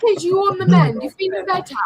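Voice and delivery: imitating an English father's accent. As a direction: put on an Englishman's accent to ask. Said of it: "he's English".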